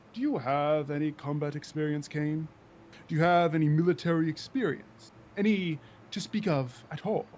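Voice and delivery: a hint of a scornful interrogation; challenging Apollonius. Officer questioning a politician's combat experience, mildly disdainful.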